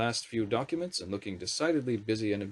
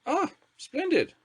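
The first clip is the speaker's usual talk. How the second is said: much higher, slow grand lady's drawl; Thatcher's drawl; 4 dB louder, slower than usual. A narrator's reading. Prime Minister greeting the wizard minister with a haughty drawl. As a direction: look down on the new minister.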